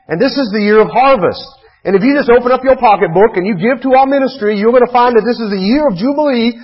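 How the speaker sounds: high, mock Southern preacher; Southern accent. Preacher mimicking prosperity preachers asking for money, in a Southern accent. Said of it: "do that in a Southern accent".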